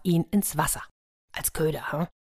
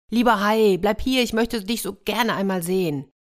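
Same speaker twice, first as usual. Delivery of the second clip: put-on boy's hopeful, higher-pitched appeal; eager plea; 4 semitones higher than usual. Boy begs the shark to stay, eager plea.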